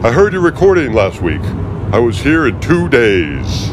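the smug agent's grating voice; aggravating Fishburne voice. Acted. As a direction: talk down to him like you own the room. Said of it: "that really aggravating voice".

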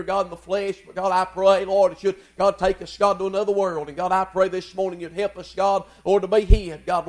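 steady prayer, every phrase opened with "God"; pulpit prayer. Acted. Preacher leads the church in morning prayer, earnest and rolling. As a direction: pray over the room, earnest and rolling.

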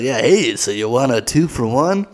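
lightly voiced stripper's casual offer; just a hint of the old stripper; understated, nearly everyday sales pitch; toned-down old stripper. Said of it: "No, not that bad, but she's like".

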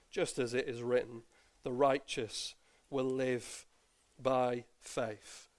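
measured, solemn Bible reading to the congregation; formal church reading of Romans; scripture reading. Acted. Bible passage read aloud.

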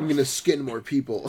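put-on low creepy-kid mutter; imitated sinister muttering. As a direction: mutter it darkly like a murderer. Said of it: "muttering under his breath".

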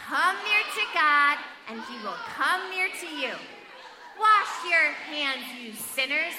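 loud, slow recitation; emphatic group reading. Acted. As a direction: lead the verse with big emphasis. Leads group reading with motions.

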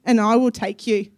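a lightly voiced loving God reaching out; voicing God. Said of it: "He said".

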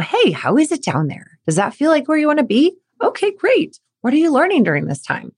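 light, lifting questions, gently curious; neutral curiosity. Pretend. Coach modelling a parent asking their athlete, lightly curious. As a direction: ask like you truly want to know. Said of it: "neutral curiosity".

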